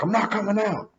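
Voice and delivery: high-pitched imitation of a balky friend; mock stubborn refusal. Friend pinned in the car door refusing, mock stubborn whine. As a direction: act out digging in and refusing, voice up high. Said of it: "He's pinned up in the door".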